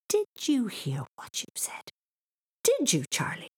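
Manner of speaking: high, breathy disbelief; hushed, high-pitched incredulous boy; gasped. Acted. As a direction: gasp the question in shock. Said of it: "he gasped".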